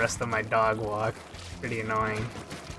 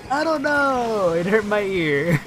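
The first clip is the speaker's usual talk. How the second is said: whiny retold reply; 8 semitones higher, 3 dB louder, slower than usual.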